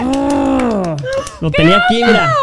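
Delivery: sudden high-pitched oh; high surprised exclamation. Real, not acted. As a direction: jump up in pitch, caught off guard. Frustrated at forgotten answer.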